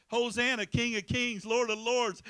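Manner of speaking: loud acclaiming cry; crowd hollering praise. Retold or imitated. Crowd hailing the King, loud acclaim. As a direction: call it out like a cheering crowd. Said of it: "the same people that hollered".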